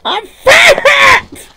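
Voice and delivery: high wailing shout; wailing cry. Real, not acted. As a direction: cry out it in mock despair. Struggling to climb again.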